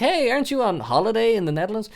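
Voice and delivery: high, fast, puzzled friend; friend's voice. Retold or imitated. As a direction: lightly voice the confused friend. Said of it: "they're like".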